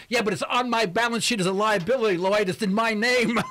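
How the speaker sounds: mock-insistent, giving a hard time; joking protest. Host ribbing caller Lloyd over borrowed money, joking protest. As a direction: playfully press the point on the caller. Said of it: "just jokingly".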